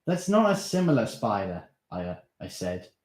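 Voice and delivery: insistent. Acted. Darren reveals spider.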